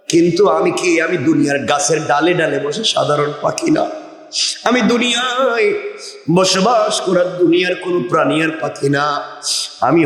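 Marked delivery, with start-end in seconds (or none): none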